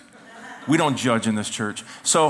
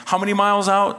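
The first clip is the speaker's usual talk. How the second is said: high, louder yell over the wind; retold shout to the driver; imitated yelling; 7 semitones higher, 4 dB louder than usual. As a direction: call out over a roaring boat. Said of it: "I was yelling how many miles out".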